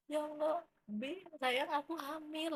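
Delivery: wife telling her husband she is finally pregnant, overjoyed; tearful joy. Retold or imitated. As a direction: announce the news in overjoyed disbelief.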